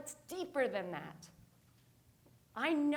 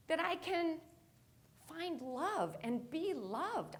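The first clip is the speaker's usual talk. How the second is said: heartfelt; 4 semitones higher, slower than usual. Real, not acted. Slow heartfelt line.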